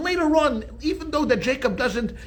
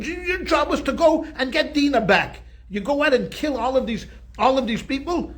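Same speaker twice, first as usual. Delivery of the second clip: raised, higher scolding of his sons; furious; 4 semitones higher than usual. Retold or imitated. Jacob scolding his sons for the killings, furious. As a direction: rebuke them like a betrayed father. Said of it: "Jacob is furious".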